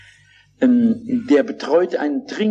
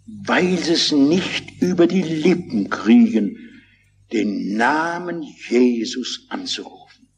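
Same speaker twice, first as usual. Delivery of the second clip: slow, weighty reproach; deliberate, drawn-out preacher's lament; emphatic preaching; 3 semitones lower, slower than usual. Real, not acted. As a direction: press each phrase on the congregation.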